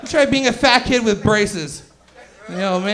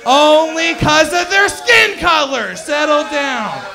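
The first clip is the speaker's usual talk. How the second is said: shouting over laughter; 3 semitones higher, 4 dB louder, slower than usual. Real, not acted.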